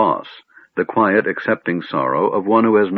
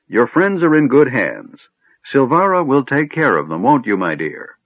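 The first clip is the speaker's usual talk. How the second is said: a hint of an old man muttering sums; lightly voiced muttering wizard; 7 semitones higher than usual. A narrator's reading. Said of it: "muttering to himself".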